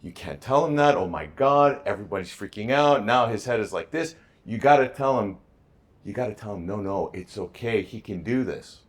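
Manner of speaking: loud, high, frantic scolding; upset ex-wife. Retold or imitated. Ex-wife arguing with him about the son, loud and frantic. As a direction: voice a panicked ex-wife laying into him.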